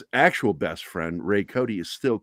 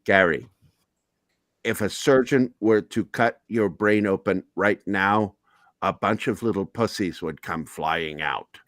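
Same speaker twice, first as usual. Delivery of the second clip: stoma voice. Retold or imitated. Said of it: "he would talk like that".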